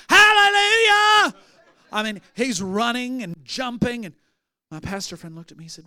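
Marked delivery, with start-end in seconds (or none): 0.1-1.3 hallelujah shouted high and loud, drawn out; joyful shout. Retold or imitated. Freed man jumping in the front row, ecstatic shout.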